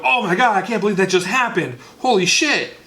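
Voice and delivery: a hammed-up shocked fan; mock excitement. Cohost imitates the audience's shocked excitement. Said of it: "that excitement of".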